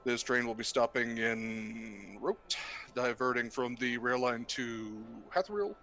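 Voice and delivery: pilot announcement over intercom; captain on the PA, measured and calm; pilot cockpit headset. Acted. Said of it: "sounds like a legit pilot".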